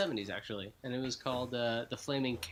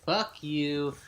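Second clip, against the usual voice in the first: mock angry rant; 8 dB louder than usual. Ranting at Ben Stiller.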